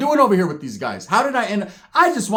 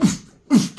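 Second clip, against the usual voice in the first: imitated grunts; 8 semitones higher, 4 dB louder than usual. Imitates island fighting noises.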